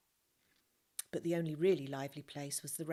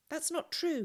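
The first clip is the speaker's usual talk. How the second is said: high, louder burst of disbelief; indignant protest; 12 semitones higher, 5 dB louder than usual. Acted. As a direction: throw it back at her, indignant. Joseph confronting hiding woman.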